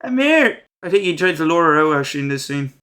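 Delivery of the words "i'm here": higher, louder cocky greeting; hammed-up taunting villain, much higher; mock taunt. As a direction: swagger in like the villain showing up. Michael taunting after tipping counter.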